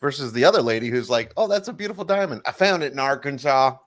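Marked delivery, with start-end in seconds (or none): 1.4-3.8 put-on light, quick Californian accent in a gushing quote; a hint of a bubbly Californian woman's accent, higher at the start. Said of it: "That's my Californian accent".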